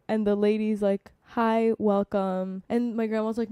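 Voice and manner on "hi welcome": slow, unenthusiastic greeting at usual pitch; half-hearted, grudging shop hello; not nice enough. Retold or imitated. Rude shop lady greeting a customer, not nice enough. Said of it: "not like that. Nicer".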